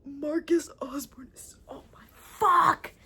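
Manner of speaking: slow whispered gasp; overwhelmed whisper; breathless whisper. Real, not acted. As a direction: swoon in a whisper.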